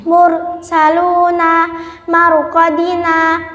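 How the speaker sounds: thick, heavy r in "mursaluna, maruqadina"; "mursaluna" recited with a heavy, held r; tafkhim. Shown as a demonstration. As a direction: round the r darkly in "mursaluna, maruqadina". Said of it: "ro yang dibaca tafkhim".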